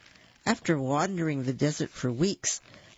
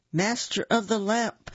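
booming genie; 6 semitones higher than usual. A narrator's reading. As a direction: boom it out like a genie. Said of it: "the genie boomed".

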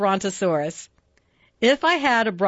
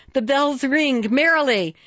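Santa calling out; 5 semitones higher than usual. Acted.

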